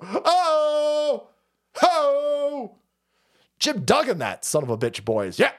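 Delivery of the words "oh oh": high wheezing laugh; laughing hard; delighted cackle. Real, not acted. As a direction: lose it laughing at the story. Cracks up at his own story.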